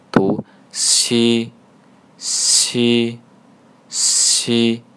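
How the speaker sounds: "西" drawn out with a hissy sh-like x; Korean si demo. Shown as a demonstration. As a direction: let air slide through "西" before a long ee. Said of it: "类似于G七七的西". (“西”像“七七西”的西，带气流拉长)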